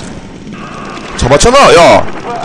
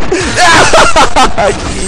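high falling scream; panicked scream; 8 semitones higher than usual. Real, not acted. Gamer caught after begging, panicked scream. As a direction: scream high and let it fall away.

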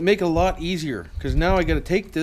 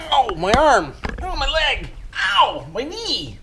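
hammed-up pain yelps, higher and louder; tripping and falling; 8 semitones higher, 5 dB louder, slower than usual. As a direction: cry out as if you just fell. Mock fall, crying out in pain.

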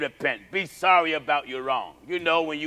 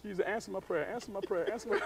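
soft, quiet inner prayer; boy praying silently while his father stares; praying to myself; 3 semitones higher, 12 dB quieter, faster than usual. Retold or imitated. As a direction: plead under the breath. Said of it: "I was saying to myself".

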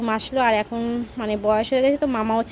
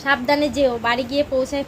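calling out; 3 semitones higher, 4 dB louder than usual. Real, not acted. Farewell to grandmother.

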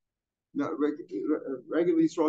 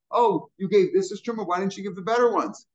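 higher-pitched, mildly earnest retold question; serious; 4 semitones higher than usual. Owner finding truma was given, sincerely asking. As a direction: ask it as if you mean the offer. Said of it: "maybe he was serious".

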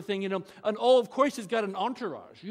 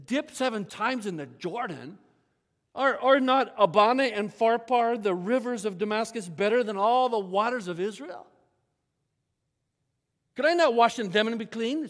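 indignant protest; 2 semitones higher, 4 dB louder than usual. Retold or imitated. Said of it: "went in a rage".

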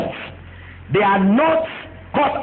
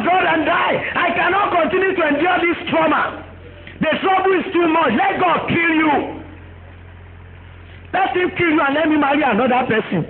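higher pitched, exasperated nagging rant; Job's wife, angry; 5 semitones higher than usual. Retold or imitated. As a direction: berate the suffering husband, fed up. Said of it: "What did the wife say".

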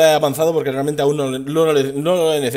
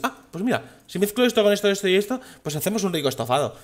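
Ignis voice; 5 semitones higher, 3 dB quieter than usual. Retold or imitated. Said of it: "dice Ignis".

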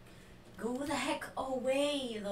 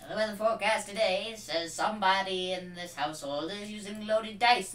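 put-on mid-Atlantic accent; faster than usual. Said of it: "Suddenly you're doing your mid-Atlantic accent".

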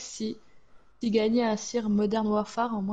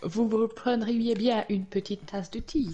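put-on snob English accent; 3 dB quieter than usual. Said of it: "arrête d'essayer de faire la snob".

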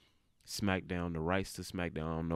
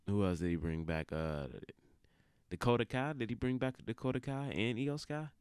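monotone. Real, not acted. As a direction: drag it out flat and sleepy. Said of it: "I apologize for my monotone tone".

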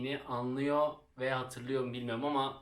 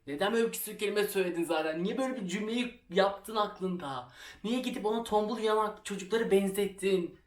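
higher, louder berating of herself; a girl scolding herself in the corridor, higher and louder; self-scolding; 5 semitones higher, 4 dB louder than usual. Retold or imitated. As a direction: tear into yourself for a dumb remark. Scolding herself while crying.

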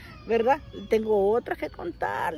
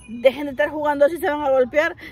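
louder, fast, mocking echo of the father's words; mocking repeat; 3 semitones higher, 5 dB louder than usual. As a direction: parrot dad back in disbelief. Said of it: "¿En serio?". (repetición burlona e incrédula, más fuerte y rápida)

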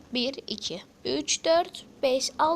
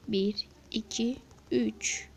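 whisper; 3 semitones lower, 3 dB quieter, much slower than usual. Real, not acted. Whispered count.

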